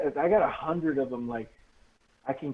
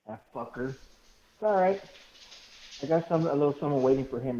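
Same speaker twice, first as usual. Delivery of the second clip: mock villain threat. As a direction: promise payback like a cartoon villain.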